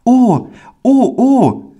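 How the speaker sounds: put-on a poor child overwhelmed by a gift; overjoyed boy. Pauli, thrilled by the circus tickets, cries out very high with joy. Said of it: "ganz rot vor Freude".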